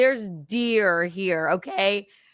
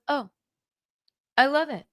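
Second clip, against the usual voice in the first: high, gushing Snow White impression; high giddy gushing mimicry; mocking gushing voice; 11 semitones higher, 3 dB louder than usual. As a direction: squeal it like a giddy princess. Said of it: "he presses send and goes".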